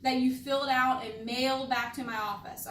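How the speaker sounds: "filled out" and "mailed" stressed; emphasized key words. Shown as a demonstration. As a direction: lean on "filled out" and "mailed back". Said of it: "words that you hear me emphasizing".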